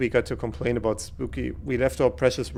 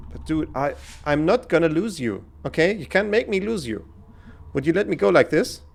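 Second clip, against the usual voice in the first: higher, pleading voice; 5 semitones higher than usual. Acted. Begging his best friend not to die, pleading. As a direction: beg him to stay alive.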